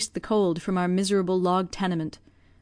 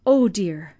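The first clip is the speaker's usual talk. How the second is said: oh dear pushed out louder and voiced, a mild acted sob; 4 dB louder than usual. Old servant grieving for the poor family, louder voiced sob. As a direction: grief breaking through into voice. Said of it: "sobbed Jenny".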